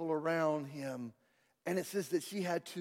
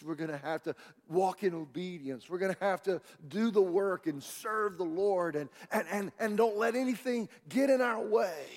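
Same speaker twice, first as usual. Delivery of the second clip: rising, louder, insistent list; building preaching; 4 semitones higher, 6 dB louder than usual. Real, not acted. Preacher urges the church into the new year, building insistence. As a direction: gather force phrase by phrase.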